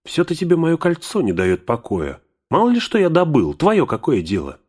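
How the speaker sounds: a jealous outburst in a cracking voice; shrill angry. A narrator's reading. Bilbo defending his ring from Gandalf, shrill and angry. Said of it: "ломким, чуть ли не визгливым голосом".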